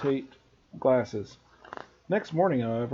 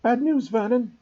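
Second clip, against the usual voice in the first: higher, a bit louder, clipped with worry; angry and worried; 10 semitones higher, 4 dB louder than usual. A narrator's reading. Aunt breaks bad news to her husband, angry and worried. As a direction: snap out bad news, rattled. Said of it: "looking both angry and worried".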